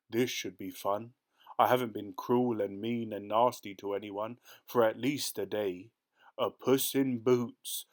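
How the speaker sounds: lightly voiced cruel ogre, gloating; a hint of a nasty ogre enjoying himself; fierce ogre. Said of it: "roared the ogre".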